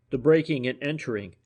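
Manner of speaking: firm, businesslike statement; clipped-down matter-of-fact detective; decisive, businesslike. Acted. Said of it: "in a decisive, businesslike tone".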